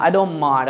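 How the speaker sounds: "don't" said without its t; silent T. Shown as a demonstration. Teacher modelling for learners, "don't" with no t. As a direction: drop the t of "don't" into "mind". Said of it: "টি কিন্তু আমরা কি বলবো না".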